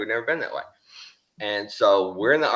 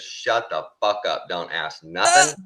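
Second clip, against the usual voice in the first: stern hushed order. Retold or imitated. Warning buddy after the traffic stop.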